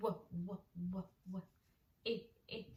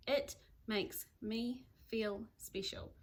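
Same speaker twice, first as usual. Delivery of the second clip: slow reading back; slower than usual. Shown as a demonstration. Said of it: "read it back to myself".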